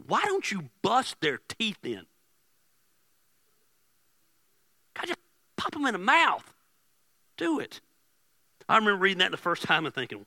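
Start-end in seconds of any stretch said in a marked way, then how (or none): 0.1-7.8 high, drawn-out mock plea; egging God on. David asking God to hit his enemies, high urging plea. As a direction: urge it in a raised, exaggerated voice. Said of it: "this is literally what David asked God".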